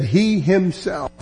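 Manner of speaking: slow stress on "He himself"; a slow, deliberate "He himself"; emphatic he himself. Shown as a demonstration. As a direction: draw out "He himself" with weight. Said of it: "he's being very emphatic".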